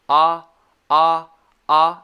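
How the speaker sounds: "ah" loud with throat and mouth totally open; short O sound. Shown as a demonstration. Teacher showing open throat and mouth, loud "ah". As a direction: repeat a big, open, isolated "ah". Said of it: "it's totally open".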